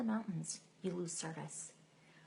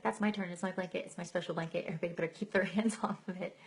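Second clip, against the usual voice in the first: mock possessive; 3 dB louder, faster than usual. Possessive mock claim on blanket.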